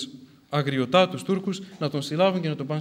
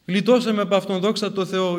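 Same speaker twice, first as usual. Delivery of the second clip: raised, louder burst of relief; relieved exclamation; 4 semitones higher, 5 dB louder than usual. Acted. Disciple to his elder after the persecutor's death, relieved exclamation. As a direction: voice the disciple thanking God in relief.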